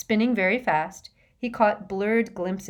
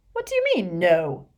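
indignant shout; 6 dB louder than usual. A narrator's reading. Ron challenging the fat lady over the password, indignantly shouting. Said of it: "and please don't shout".

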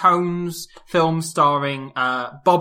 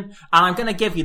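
ordinary talk

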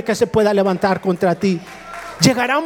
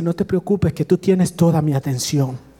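God's reassurance; 5 semitones lower than usual. Retold or imitated. God reassures the believer.

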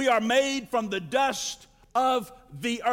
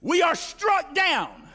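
slow, weighty reading with pauses; sermon reading, building to a cry; dramatic scripture reading. Acted. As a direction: lay each phrase down like a verdict. Reads scripture with emphasis.

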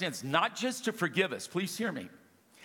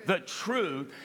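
call and response; slower than usual. Shown as a demonstration. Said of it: "Can you say that with me?".

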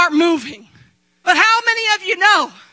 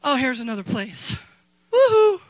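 mock cheering; 3 semitones higher than usual. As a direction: parody a giddy churchgoer cheering. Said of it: "we think".

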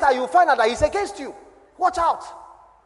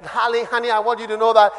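a cheater's honeyed promises, building louder; mock lover swearing he's hers alone; sweet-talking cheat; 7 dB louder than usual. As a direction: sweet-talk her, swelling to a big declaration. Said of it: "They still say that".

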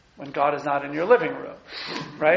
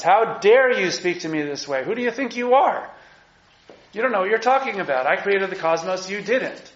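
God blasting Job; 4 semitones higher than usual. Acted. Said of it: "God is blasting Job for his insolence".

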